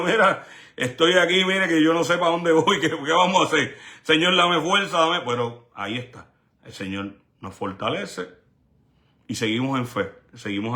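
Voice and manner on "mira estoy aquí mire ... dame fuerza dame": higher, earnest begging to God; retold desperate prayer, pitched up; pleading prayer. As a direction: cry out to the Lord for strength. Retells his own prayer.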